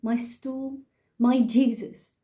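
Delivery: put-on poetry recital in an English accent; measured English-accented verse reading. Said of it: "I'm gonna do it in an English accent".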